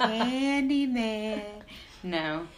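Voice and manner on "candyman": spooky drawn-out name. Pretend.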